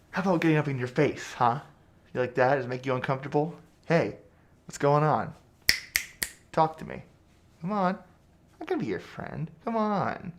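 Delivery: loud, pressing interrogation; loud badgering, pitch climbing as you coax; in-your-face goading. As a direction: crowd the captive with loud, pushy questions. Gets in the captive's face.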